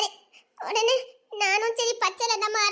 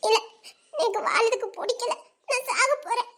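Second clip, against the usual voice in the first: weepy, despairing protest; halting, with crying in the voice; tearful; 3 semitones higher than usual. Acted. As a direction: sob it out in despair. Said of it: "ஆ, சரி, இப்ப எப்படி அழுத".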